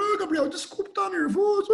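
high, laughing fake sob; badly faked weepy apology dissolving into laughter; mock crying. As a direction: ham up a tearful apology, voice way up. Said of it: "Aí eu choro".

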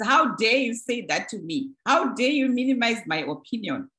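indignant reaction. Shown as a demonstration. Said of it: "A reaction is".

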